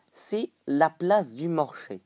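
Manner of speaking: drawn-out Québécois vowels, "marché" as "morché"; slow mock-Canadian French; put-on Québécois accent. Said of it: "je prends un accent comme ça".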